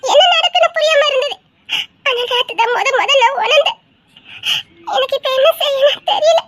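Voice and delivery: tearful, half-laughing through sobs; crying confession. Acted. Wife admitting her love to her husband, crying. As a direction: confess love while weeping. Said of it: "அழாதேன்னு சொன்னேன்".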